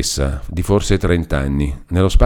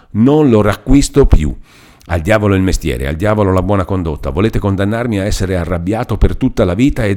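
Renzo furious. Acted. Renzo angrily pours out his grievance to Lucia. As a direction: let the anger build to a cry.

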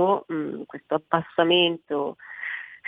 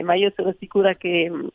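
guttural voice from a cold. Real, not acted. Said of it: "Scusate la voce è un po' gutturale, ma ho, ho il raffreddore".

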